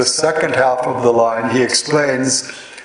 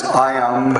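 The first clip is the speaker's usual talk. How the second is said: slow scansion listing; slower than usual. Shown as a demonstration. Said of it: "The scansion is".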